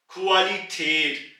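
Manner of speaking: क्वालिटेट, slow, with a flat ए in the last syllable; umlaut form. Shown as a demonstration. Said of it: "ऊपर दो नुक्ते यानी कि umlaut है". (क्वालिटेट धीरे, चपटी ए के साथ)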